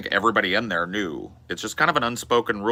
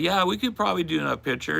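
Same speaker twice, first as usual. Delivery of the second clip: put-on drunk self; 11 semitones higher, faster than usual. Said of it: "I was like".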